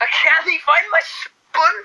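high, stretched mock Scottish; Scottish accent. Hunting for a spoon, exaggerated Scottish accent. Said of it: "Scottish accent".

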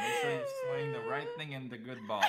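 loud laughing shout. Real, not acted. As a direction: blurt it out mid-laugh. Joking back, cracking up.

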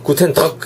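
"구텐 덕" with a German-like throaty ending; wrong guttural demo. Shown as a demonstration. Teacher mocking a wrong cough pronunciation, guttural demo. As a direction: make "덕" a mistaken harsh cut-off sound. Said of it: "이렇게 하시지 마시고".

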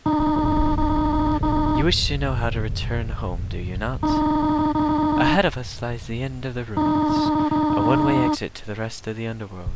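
a hint of a stern mother; Toriel voice. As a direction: read it like a gentle but firm guardian. Reads Toriel's lines in voice.

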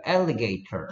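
alligator with a crisp British t and no r; British alligator, each sound clear; British accent. Shown as a demonstration. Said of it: "alligator 이런 식으로 할 거야".

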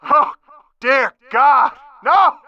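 a sudden cry of dread, pitch jumping up; horrified shout. Acted. Rebel sees the Striders coming and cries out in horror. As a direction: shout it as the worst news lands.

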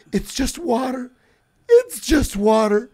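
mock-distressed protest; retold freak-out. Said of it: "She freaks out".

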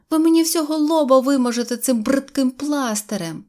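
put-on high, loud girlish complaint; upset shouting. A narrator's reading. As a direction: scold him in a high voice. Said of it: "кричала Синьоочка". (обурений дитячий крик)

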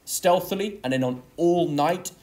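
"stealthily" and "all night" each led by a firm beat; stressed initial syllables. Shown as a demonstration. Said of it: "Each of the initial syllables is stressed".

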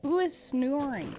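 slow, drawn-out "snoring"; odd pronunciation. Real, not acted. Streamer asking who is asleep, oddly drawn-out "snoring". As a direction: stretch "snoring" oddly as you ask. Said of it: "why I said it like that".

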